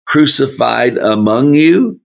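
"crucified among you" climbing in pitch to the end; read as a question. Shown as a demonstration. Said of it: "deal with this as a question".

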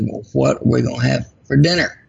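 ordinary talk

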